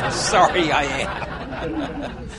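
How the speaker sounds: rereading the line between laughs; can't keep it together, giggling; laughing through quote. Real, not acted.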